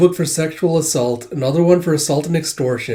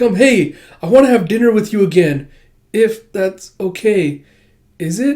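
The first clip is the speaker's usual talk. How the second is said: shy request; 6 semitones higher, 5 dB louder than usual. Acted. Shy girl asks for another dinner.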